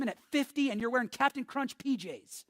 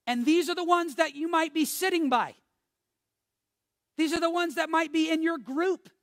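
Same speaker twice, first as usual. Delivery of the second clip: much higher and louder urgent preaching; full-force preaching; 6 semitones higher, 4 dB louder than usual. Real, not acted. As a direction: warn the congregation at full force.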